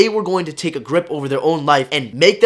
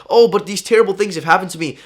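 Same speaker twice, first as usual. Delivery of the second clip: mock whine; 5 semitones higher, 5 dB louder than usual. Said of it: "people are gonna be like".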